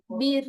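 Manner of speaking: বীর with a light, thin r. Shown as a demonstration. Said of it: "বীর কিন্তু পাতলা উচ্চারণ". (বীর পাতলা উচ্চারণে)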